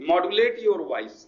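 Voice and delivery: very slow, each word spaced out for note-taking; slow dictation. Shown as a demonstration. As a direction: spell it out slowly like dictating to the class. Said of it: "teacher dictates key phrase". (धीमी गति से लिखवाना)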